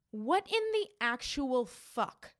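retold outrage, stretched for effect; indignant confrontation. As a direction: draw out each word in exasperated disbelief. Retells confronting the salesman.

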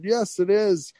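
apologetic British accent, imitated; British grandmother. Grandmother apologizing to the school boss, mock British accent. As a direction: put on a fussy, mortified British accent. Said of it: "she was British".

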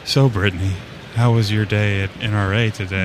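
low, smooth radio host voice; sultry radio voice. Pretend. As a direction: croon it like a late-night DJ. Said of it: "she wants us to say".

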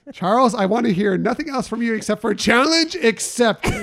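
hammed-up dare to a friend; mock challenge. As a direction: playfully throw down the gauntlet, laughing. Mock challenge issued to absent friend.

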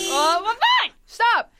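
high, loud snap of stop; hammed-up exasperation; mock exasperated yell. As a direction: cut them off in fake annoyance.

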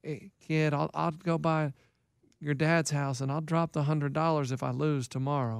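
low, slow, soft coach impression; Keith. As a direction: drop into the friend's quiet, unhurried voice. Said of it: "No, that's not how he talks".

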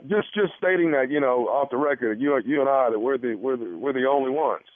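a lightly voiced, over-familiar physician; put-on doctor. Prankster doctor talking off the record, confiding.

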